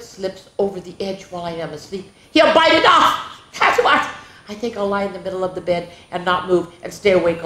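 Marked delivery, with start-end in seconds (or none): 2.3-4.1 higher, laughing through a spooky line; half-giggling at the fright; laughing scare. Acted. Scary thought, laughing.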